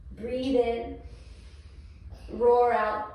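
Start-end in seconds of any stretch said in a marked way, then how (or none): 2.3-3.1 roaring cue. Shown as a demonstration. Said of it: "how to do lion breath".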